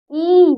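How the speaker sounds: ई held long; long vowel. Shown as a demonstration. Teacher showing double-length vowels, ई drawn out. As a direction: stretch out ई. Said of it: "थोड़ा ज्यादा".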